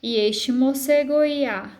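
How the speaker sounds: "moce goiá" read slowly, go-i-a glided into one syllable; slow verse reading, melt the vowels in "goiá"; vogais fundidas. Shown as a demonstration. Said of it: "eles se juntam e formam somente uma". ("goiá" com as vogais juntas numa só sílaba)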